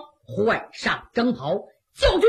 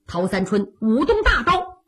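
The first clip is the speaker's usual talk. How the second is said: ordinary delivery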